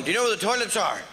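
flat, eyebrows-down asking; frowning question. Shown as a demonstration. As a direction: ask it with a scowl. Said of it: "Don't be going".

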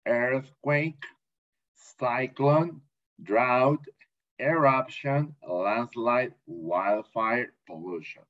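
word-by-word pronunciation model, pausing between items; spaced-out vocabulary drill. Shown as a demonstration. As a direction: read the list for learners to repeat. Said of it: "más la pronunciación".

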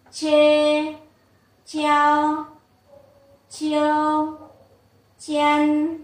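evenly pitched, drawn-out drill with gaps; model syllable drill. Shown as a demonstration. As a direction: chant syllables one at a time for students to repeat. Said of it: "Các bạn đọc lại một lần nhá".

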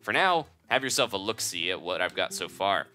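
folksy, hearty shopkeeper. Acted. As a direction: sell it like a rough country merchant. Bomb shop owner dialogue voiced.

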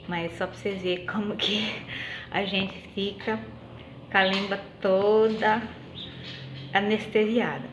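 numb tongue, slurred words; talking with an anesthetized tongue; numb from the dentist. Real, not acted. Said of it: "falar igual o Romário".

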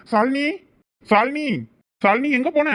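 anxious high calls, loud and rising; calling out. Acted. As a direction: call her name across the empty desert. Searching for missing wife.

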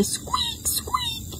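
very high, thin squeaks; tiny squealed squeaks; dolphin squeak. Shown as a demonstration. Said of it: "when they jump up out of the water".

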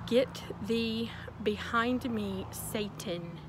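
slow, solemn biblical rebuke; hammed-up scripture line; mock rebuke. Shown as a demonstration. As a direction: cast out the devil, very slowly. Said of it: "then you need to say".

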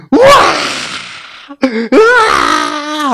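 high, loud drawn-out wail; slow, loud imitated child wail; child's wail. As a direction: wail like a child who just lost something. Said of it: "하더니".

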